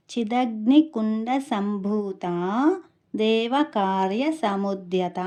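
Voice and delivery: slow, measured Sanskrit verse recitation; shloka recitation. Shown as a demonstration. Teacher shows how the name sounds in the shloka, slow recitation. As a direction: draw out the long final vowels in చిదగ్నికుండ సంభూత. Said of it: "శ్లోకంలో ఇంకా నామావళిలో ఎలా ఉచ్చరించాలి".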